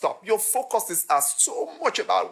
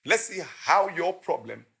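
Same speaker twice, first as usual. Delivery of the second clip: calm, lowered invitation; 3 semitones lower than usual. Acted. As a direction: invite him over kindly. Voices Jesus calmly inviting.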